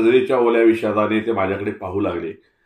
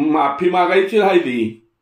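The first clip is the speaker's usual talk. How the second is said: put-on old Tatya, contrite; 8 semitones higher, 4 dB louder than usual. Tatya comes back.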